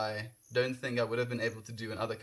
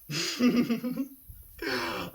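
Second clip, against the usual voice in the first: emotional laugh; 6 semitones higher than usual. Real, not acted. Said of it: "I'm getting emotional".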